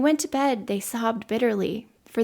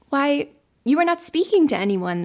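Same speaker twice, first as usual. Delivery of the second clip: higher, louder astonished protest; surprised; 6 semitones higher, 6 dB louder than usual. A narrator's reading. Children puzzled by the girl talking to her box, surprised. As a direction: exclaim it in rising surprise. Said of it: "more surprised than ever".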